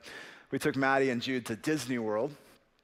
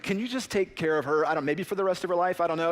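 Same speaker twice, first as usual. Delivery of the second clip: frantic plea; 4 semitones higher than usual. Retold or imitated. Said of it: "we're like".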